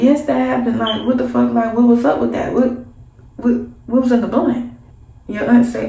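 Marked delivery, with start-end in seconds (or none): 0.0-4.7 indignant questions to auntie; upset questioning. Retold or imitated. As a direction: press the aunt for answers. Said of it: "And it's like".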